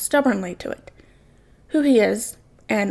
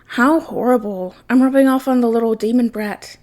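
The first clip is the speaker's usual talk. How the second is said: smirking; 4 dB louder than usual. Acted. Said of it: "Jason smirked".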